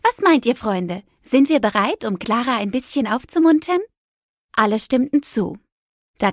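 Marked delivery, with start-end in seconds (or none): 0.0-3.8 lightly voiced perky toy, brushing off the gloom; a lightly put-on voice that cheers a child up; cheerful toy Dragana. Toy Dragana waves away Clara's sulking, lightly voiced and upbeat.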